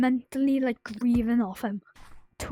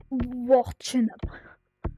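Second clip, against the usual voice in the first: slow breathy whisper, almost no voice; much slower than usual. Real, not acted. Kid telling viewers about his dead dog, slow whisper. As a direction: let it fall away to a slow whisper. Repeats the phrase, drops to whisper.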